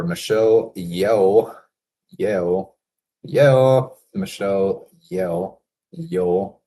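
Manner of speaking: testing different ways to say "Yeoh"; unsure, repeated attempts at the name "Yeoh"; trying out pronunciations. Real, not acted. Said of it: "How would you pronounce that?".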